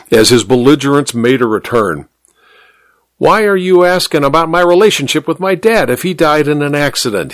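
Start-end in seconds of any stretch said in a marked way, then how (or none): 3.2-7.3 raised, demanding tone; angry demand. Acted. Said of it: "he demanded".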